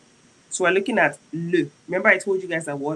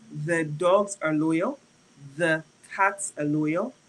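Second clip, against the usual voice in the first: slow, leaning on "The" before dogs and cats; slow careful model sentence with the article stressed; slower than usual. Shown as a demonstration. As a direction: give every "The" its full weight, slowly. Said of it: "In French, you have to say".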